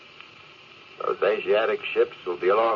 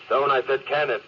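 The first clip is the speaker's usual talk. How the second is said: higher, sharp command; angry order; 6 semitones higher than usual. Acted. Captain ordering Stone to stop talking, angry. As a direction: shut him down hard.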